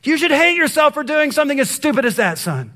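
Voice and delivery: hammed-up parent shaming a child; exaggerated furious dad scolding; mock angry rant. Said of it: "these are some things we sometimes say".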